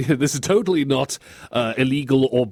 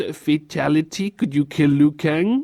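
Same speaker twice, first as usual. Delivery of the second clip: sweet, cute, little put-on voice. Joking about a fatality line, the speaker does a cute voice. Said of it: "I'll do my cute voice".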